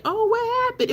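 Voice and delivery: imitating an over-the-top worried viewer; concerned surprise. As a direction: play the alarmed friend popping in. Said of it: "Or I would be like".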